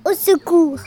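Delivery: loud mock cry for help. The fox sees the gruffalo and cries out for help. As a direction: call for help like a scared fox. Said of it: "il cria".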